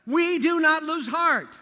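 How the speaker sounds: Paul rallying the Corinthians, a rousing call to courage; rallying cry. Acted. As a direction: proclaim it like a battle cry. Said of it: "rallying the Corinthians with these powerful words".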